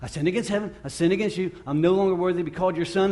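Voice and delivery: imitating a son delivering his prepared speech; prodigal's rehearsed apology. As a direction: race through a memorized confession. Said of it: "And the son says".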